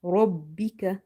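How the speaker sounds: slow "Rabbika" with a heavy rounded r, like "rob"; heavy full-mouth ra. Shown as a demonstration. Teacher showing the heavy ra, full-mouthed "Rabbika". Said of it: "As your mouth is full".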